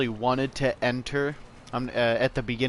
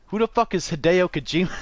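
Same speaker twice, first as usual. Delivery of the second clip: mocking friend; 6 semitones higher, 4 dB louder, faster than usual. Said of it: "He'd be like".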